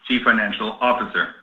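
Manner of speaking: normal talking voice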